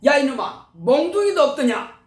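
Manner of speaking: angry scolding father. Retold or imitated. Father berating his beaten son for not hitting back, angry scolding. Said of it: "아버지께서 화를 내시더라고요".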